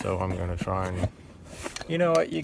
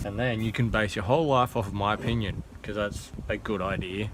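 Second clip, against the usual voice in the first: lightly sarcastic advice; deadpan, a touch of mockery. Real, not acted. Mechanic telling viewers to trust their opinion, sarcastic. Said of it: "Note the sarcasm".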